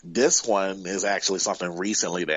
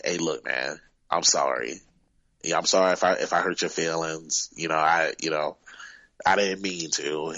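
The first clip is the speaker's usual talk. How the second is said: gentle apology; 3 semitones lower than usual. Retold or imitated. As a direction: ease the boy's feelings gently. Apologizing to crying kid.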